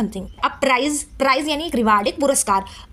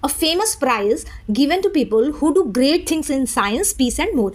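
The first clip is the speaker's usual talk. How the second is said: slow reading; much slower than usual. Shown as a demonstration. Teacher reading the written definition slowly. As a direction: read a famous prize given to people very slowly. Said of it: "इन्होंने लिखा हुआ है".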